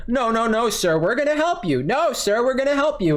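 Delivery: a hint of a sing-song call-center agent; mocking the agent. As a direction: parody the fake reassurance. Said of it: "I just get".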